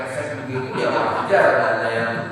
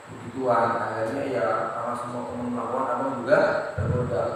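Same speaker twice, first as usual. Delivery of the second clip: guilty husband confessing; 5 semitones lower, 6 dB quieter than usual. Acted.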